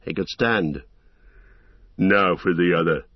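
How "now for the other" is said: menacing orc leader voice; gruff orc captain. Acted. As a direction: threaten like a brutal orc captain. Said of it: "said Ugluk".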